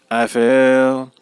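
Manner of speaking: usual speaking voice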